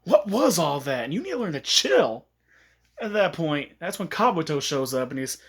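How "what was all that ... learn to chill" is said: mild mock yell, rising in pitch; half-shouted indignant reproach; Naruto telling off. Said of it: "he's actually yelling at Lee for that".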